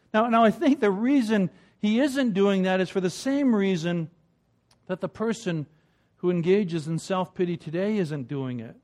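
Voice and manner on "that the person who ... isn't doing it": ordinary delivery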